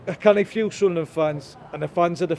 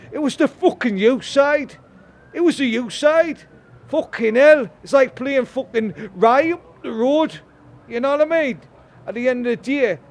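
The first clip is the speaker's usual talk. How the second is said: higher, heated, ranting at the pitch; furious fan venting, pitch raised and pushed; fuming rant; 5 semitones higher than usual. Real, not acted. Angry fan ranting about the club to the reporter, higher and heated. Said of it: "I'm fucking fuming".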